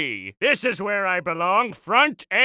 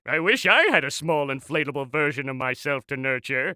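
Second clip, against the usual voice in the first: wistful aside; 8 semitones lower, 3 dB quieter than usual. Acted.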